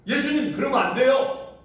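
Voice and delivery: a touch of Peter's objection; 살짝 높여 항변하듯; Peter protesting. Retold or imitated. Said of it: "이렇게 항변하는 거예요".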